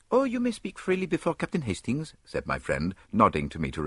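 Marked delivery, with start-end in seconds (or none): 0.1-2.1 higher, easy Belgian detective; higher Poirot, relaxed. A narrator's reading. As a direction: wave it off lightly as Poirot. Poirot reassuring his guest.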